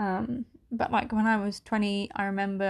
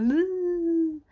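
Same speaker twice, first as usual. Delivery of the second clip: retold crying whimper; 8 semitones higher, 4 dB louder than usual. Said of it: "I'm freaking crying down the phone to him".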